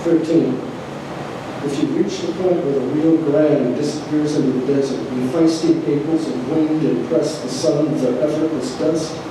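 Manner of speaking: measured, declaimed poetry reading with pauses between items; poem reading. Acted. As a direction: read it out like a numbered poem to an audience. Reads own poem aloud to audience.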